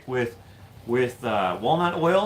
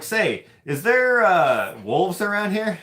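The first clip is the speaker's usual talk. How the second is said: mock-innocent question; 8 semitones higher, 6 dB louder, slower than usual. Retelling question to park guy.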